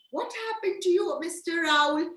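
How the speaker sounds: high-pitched worried question; mock-concerned vet; play-acted vet concern. Vet questioning sick owl.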